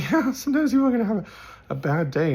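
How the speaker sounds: high, loud, fast and laughing; amused exclamation. Retold or imitated. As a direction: burst out with a laughing retort. Laughing retort in retold argument.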